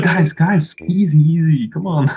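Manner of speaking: high, loud pleading; calming a crowd. Retold or imitated. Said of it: "It's like".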